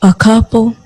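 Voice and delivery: doubting echo, leaning on couple; questioning how many a couple really was; sceptical. Acted. Wife doubts her husband's couple of drinks, sceptical.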